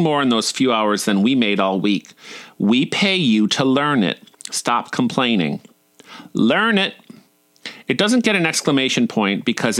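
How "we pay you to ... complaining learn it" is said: catty, drawled put-down; syrupy disdain. Acted. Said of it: "sounds better when said with a syrupy disdain".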